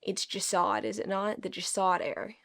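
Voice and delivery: lightly put-on hick country accent; country accent, mispronouncing "Jasad". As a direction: read it in a mild country twang. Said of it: "in my hick ass country accent".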